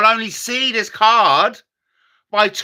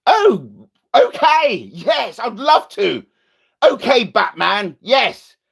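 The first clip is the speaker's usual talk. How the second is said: higher, excited phone voice; eager sidekick; 5 semitones higher than usual. Pretend. Sidekick answering Batman's call, higher and excited.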